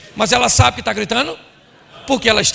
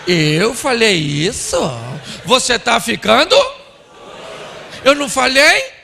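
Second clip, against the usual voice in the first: feigned innocence; 4 dB louder than usual. Acted. Husband denying what he said to wife, mock disbelief. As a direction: act astonished at the accusation, rising at the ends. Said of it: "Ele olha pra senhora e diz assim".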